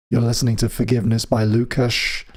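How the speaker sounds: usual speaking voice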